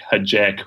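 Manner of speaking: "Hajek" with short a, HAD-jeck; variant pronunciation. Shown as a demonstration. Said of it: "uh, I get".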